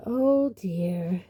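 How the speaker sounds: drawn-out dismayed sigh of words; sad. Acted. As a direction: let it sink regretfully. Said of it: "said Hermione sadly".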